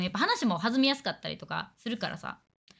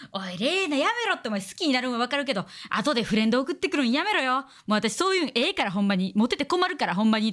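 mock cocky scolding. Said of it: "とか言ったら".

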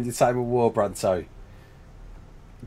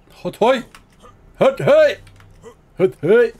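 a high, loud hollered call; playful call out; 9 semitones higher, 5 dB louder, slower than usual. Acted. Streamer hollering at his game creatures, a loud high call. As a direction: belt it out like a rallying cry.

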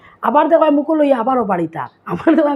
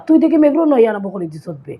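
fast playful ribbing; teasing talk; faster than usual. Retold or imitated. Sylheti speaker ribbing a friend who shifts things about, teasing. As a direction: say it like a joker. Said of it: "ফুংটার লাগান কইবা".

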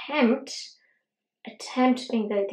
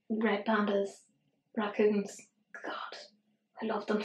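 whispered raccoons; 7 dB quieter than usual. Real, not acted. Cooing over little-handed animals.

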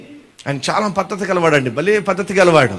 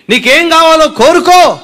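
raised, slow and solemn offer; voice of the Lord; 9 semitones higher, 7 dB louder, slower than usual. Acted. The Lord to the blind man, solemn slow offer. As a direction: speak as the Lord granting a wish.

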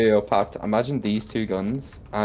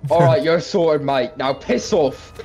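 loud, higher barked army order; drill sergeant voice; 5 semitones higher, 4 dB louder, slower than usual. Retold or imitated. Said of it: "He sounds like a drill sergeant".

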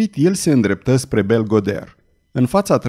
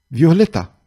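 calling out; 3 semitones higher than usual. Acted. Calling the girl to sing.

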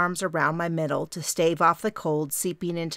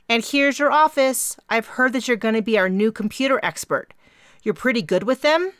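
higher, louder bubbly young voice with a hint of Minnesota; eager Mary; 6 semitones higher, 5 dB louder than usual. A narrator's reading. Mary greets her new roommate, bubbly and raised. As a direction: gush at the newcomer. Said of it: "faint Minnesota accent".

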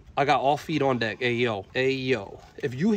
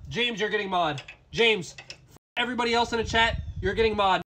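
raised pitch, crowing at the doubters; triumphant boasting; 6 semitones higher than usual. Real, not acted. Streamer crowing at chat that trolled him, triumphant boasting. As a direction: crow it to the whole audience.

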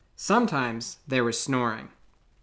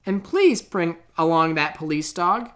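eager callers; 6 semitones higher, 3 dB louder than usual. Acted. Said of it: "they said".

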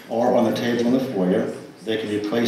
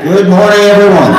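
bright laughing greeting; 10 semitones higher, 15 dB louder than usual. Real, not acted. Greeting congregation after mic fixed.

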